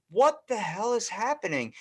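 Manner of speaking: high, loud retold disbelief; mock bafflement. Viewer reacting to the shocking commercial, mock bafflement. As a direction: exclaim it in hammed-up bafflement.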